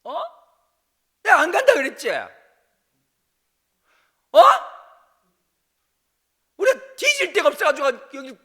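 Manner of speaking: screaming rage at Moses, voice pitched far up; furious cursing. Retold or imitated. Israelites screaming curses at Moses in the wilderness, furious yell. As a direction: hurl curses at the top of your lungs. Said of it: "모세한테 막 쌍욕하면서".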